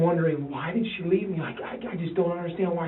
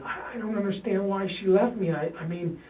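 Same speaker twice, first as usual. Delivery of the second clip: retold crying plea; 6 semitones higher than usual. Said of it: "and I'm crying".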